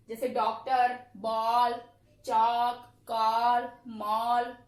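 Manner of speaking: डॉक्टर, बॉल, मॉल called out with the rounded borrowed vowel; loud example word list. Shown as a demonstration. Teacher drills the class with example words, loud and clear. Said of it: "इसका प्रयोग किया जाता है".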